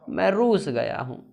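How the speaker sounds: slow, put-on sulk; mock sulking. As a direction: drag it out as if offended. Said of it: "वो तो रूस जाएगा ना". (रूठने का नाटक, धीरे-धीरे)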